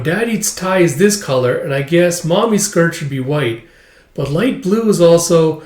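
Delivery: lightly voiced child, slightly high; little girl musing. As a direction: muse aloud like a kid at play.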